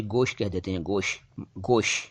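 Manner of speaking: गोश without the t of gosht; dropped final T. Shown as a demonstration. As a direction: end गोश on sh, leaving off the t. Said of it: "त बोलते ही नहीं है".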